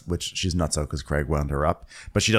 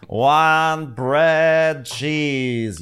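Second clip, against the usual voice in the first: slow, drawn-out ghost moan; ghostly wail; 8 semitones higher, 4 dB louder, much slower than usual. Pretend. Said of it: "you'll just hear my ghost yelling that".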